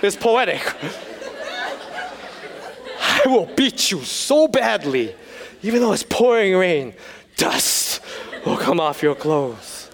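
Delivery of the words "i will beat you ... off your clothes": yelling elder. Acted. Repeating the elder's poetic threat, softened mock yelling. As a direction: act out a poetic threat, easing off. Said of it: "he's yelling".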